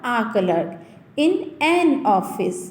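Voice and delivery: pron demo. Shown as a demonstration. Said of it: "हमने क्या लिखा".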